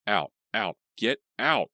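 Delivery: high loud desperate shout; crying out. A narrator's reading. Leah resists the ghost, high desperate shout. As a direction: push her out with everything. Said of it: "she cried".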